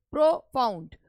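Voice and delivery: "प्रोफाउंड" in two beats, stress on फाउंड; stress on second syllable. Shown as a demonstration. Teacher showing where the voice rises, stress on फाउंड in "प्रोफाउंड". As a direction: keep प्रो light and stress फाउंड in "प्रोफाउंड". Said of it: "यहाँ पर आवाज़ उठ रही है".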